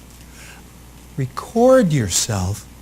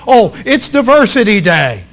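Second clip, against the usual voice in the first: mock groan; 6 semitones higher, 8 dB louder than usual. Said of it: "most people want to shoot themselves".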